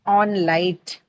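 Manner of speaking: On light with the weight on light; teacher marking the stress on light. Shown as a demonstration. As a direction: stress the second syllable light. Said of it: "shift to the second syllable".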